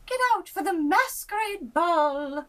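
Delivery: high, loud urging; excited court. A narrator's reading. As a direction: call him out to the ball. Court urges king.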